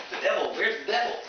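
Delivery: mildly alarmed, pitch jumping up; mock-scared, high questioning voice. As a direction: act startled, voice rising into the question. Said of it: "Like, scared".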